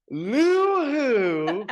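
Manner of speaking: high, loud, laughing sing-song; laughing mock echo. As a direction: laugh the word out at your friend. Mocking echo of "loser.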